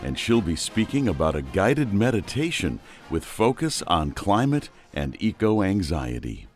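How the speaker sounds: measured, scripted host introduction; podcast intro. Real, not acted. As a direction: welcome listeners and present today's guest.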